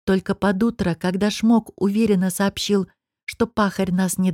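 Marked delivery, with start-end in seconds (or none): none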